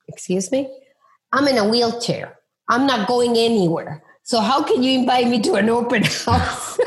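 high, laughing disbelief; man's incredulous retort. Retold or imitated. Man in a wheelchair teasing the realtor, high and laughing. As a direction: throw the question back with a laugh.

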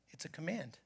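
unvoiced whisper of emphasis; hushed whispered line. Real, not acted. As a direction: whisper it like a secret command.

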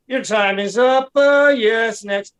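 high, put-on official cutting speakers off; mock a council official calling time; dismissive official. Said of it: "And they're like".

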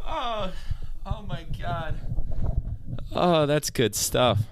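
breathless high laughter; laughing. Real, not acted. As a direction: wheeze through the laugh. Laughing hard at the machine.

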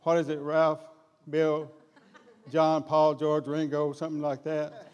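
loud, high, gushing relief; overjoyed foreman rattling off names, laughing; excited foreman. Acted. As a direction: blurt it out like a delighted servant. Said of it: "and Eliezer comes out".

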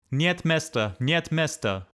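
a narrator's lightly voiced guard shouting. A narrator's reading. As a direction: turn back the crowd with a repeated yell. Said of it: "kept shouting".

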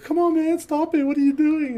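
high-pitched imitation of an irritated friend; annoyed protest. Friend being petted like a puppy objects, annoyed.

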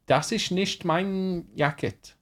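put-on German, drawn out; strong German accent. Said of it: "a really strong accent".

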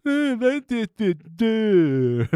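high, over-exaggerated cartoon dope babble; Homer Simpson. Co-host mocking an over-exaggerated cartoon dad, high goofy noises. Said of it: "done in that over-exaggerated Homer".

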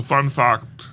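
fact said as "fahkt"; odd pronunciation. Shown as a demonstration. Reader introducing trivia, fact drawn out as "fahkt". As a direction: say fact with an open ah vowel, slowly. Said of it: "how to pronounce Focht".

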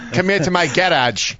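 playful imitation of an Australian; put-on Australian accent. Podcast host playing the flirting Australian, mock Australian accent. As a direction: try a mock Australian come-on. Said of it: "Especially with that accent".

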